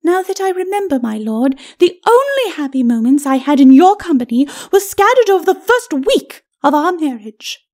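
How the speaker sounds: high, measured voice of a bitter wife; high, aggrieved ladyship; haughty ghostly lady. Acted. Lady's character voice.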